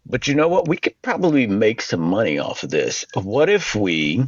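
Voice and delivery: lightly Southern preacher's pitch; a touch of Southern church leader selling the idea; Southern accent. Retold or imitated. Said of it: "I have to have a Southern accent".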